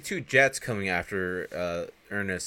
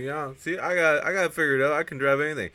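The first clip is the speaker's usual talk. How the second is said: high, loud bragging; imitated cocky boast; 8 semitones higher, 7 dB louder than usual. Boasting of having the sleigh figured out, cocky. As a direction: play proudly overconfident.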